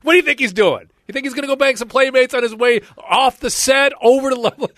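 loud, high-pitched yelling at the wife; screaming. Retold or imitated. Husband screaming at wife over Playboy Mansion jealousy, loud and high. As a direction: yell it at the top of your lungs. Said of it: "Screaming his head off at the top of his lungs".

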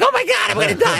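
very high, squealing comic terror; hammed-up panic. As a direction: squeal like a macho man turned coward. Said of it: "go from Mister Macho".

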